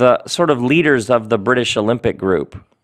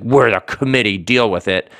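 mock over-the-top, judgmental declaration; heavy-handed judgment. Shown as a demonstration. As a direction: lay it on too thick, judging. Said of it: "heavy-handed, over-the-top judgment".

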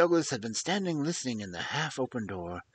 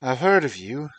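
put-on half American accent; 10 dB louder than usual. A narrator's reading. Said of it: "in an American voice which was not quite English".

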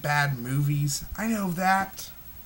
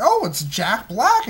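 eager moviegoer; 7 semitones higher, 6 dB louder than usual. Retold or imitated.

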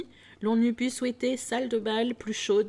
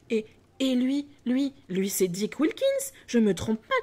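excited recognition; 3 semitones higher, 4 dB louder than usual. Acted. Scrooge excitedly recognising his friend.

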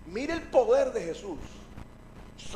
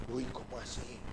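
low, very soft, understated alarm; puzzled alarm; 11 semitones lower, 14 dB quieter than usual. Acted. Pedro feeling water at his ankles, low quiet bafflement. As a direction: drop it to a small, baffled aside.

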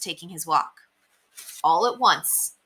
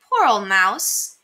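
sympathetic; 3 dB louder, slower than usual. Acted. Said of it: "they said".

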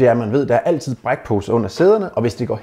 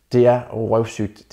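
"røvsygt" drawn out very slowly; dragged out slowly; much slower than usual. Acted. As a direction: stretch "Det er røvsygt" to show the boredom. Stresses how boring it is. ("røvsygt" trukket meget langsomt ud)

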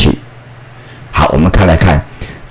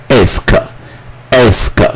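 slow teaching; 2 semitones higher than usual. Shown as a demonstration. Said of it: "teacher models the word ask".

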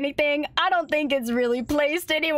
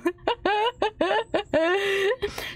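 long tittering laugh; drawn-out chuckle; 6 semitones higher than usual. Real, not acted. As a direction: giggle at your own joke. Laughs at own April joke.

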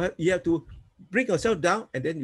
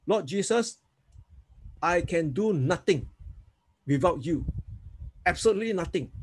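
guided prayer. Shown as a demonstration. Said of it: "Okay, say with me".

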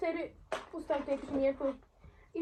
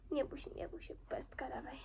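soft reassurance; 12 dB quieter than usual. Real, not acted. Calming the horse softly.

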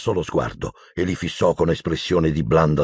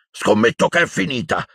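higher-pitched lively exclamation; exclaiming Hagrid; 6 semitones higher than usual. A narrator's reading. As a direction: call it out eagerly. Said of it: "esclamò Hagrid". (esclamazione vivace, tono alto)

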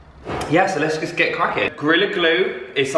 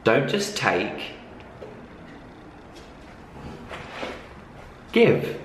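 lower, softer scripted ad read; sponsor read; 4 semitones lower, 3 dB quieter than usual. Acted. Vlogger telling viewers about the brand's campaign, lower-pitched ad read. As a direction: read the brand blurb, measured and soft.

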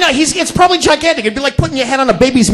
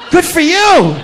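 higher, laughing "Good for you"; amused, higher "Good for you"; laughing repeat; 6 semitones higher, much slower than usual. Acted.

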